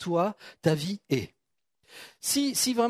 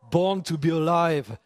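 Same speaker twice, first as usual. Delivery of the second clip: slow, showy English accent from a French speaker; accent anglais; 2 semitones lower, slower than usual. Shown as a demonstration. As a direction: draw it out in your best English accent. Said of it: "vous avez vu mon accent". (accent anglais appliqué, très étiré)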